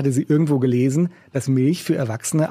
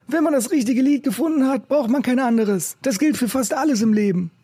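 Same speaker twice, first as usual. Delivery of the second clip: raised, rough busker voice; gruff old street musician; 11 semitones higher than usual. A narrator's reading. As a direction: play the cynical old busker.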